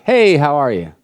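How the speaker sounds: breezy, throwaway mock greeting; insincere greeting. Shown as a demonstration. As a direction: toss it off like you don't want an answer. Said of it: "Not the insincere".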